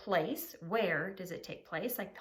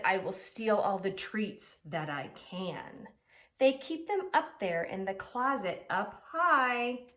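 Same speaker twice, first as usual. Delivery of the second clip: scheming pug; 4 dB louder, slower than usual. Acted. Pig plots theft.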